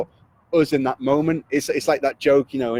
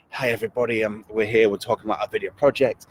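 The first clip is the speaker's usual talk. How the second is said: flat lifeless intro; 3 semitones lower than usual. Retold or imitated. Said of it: "they're stood there and they're just".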